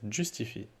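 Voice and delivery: English accent on "Justify". Real, not acted. Teacher reading out a CSS class name, English accent. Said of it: "j'ai pris mon accent anglais pour rien".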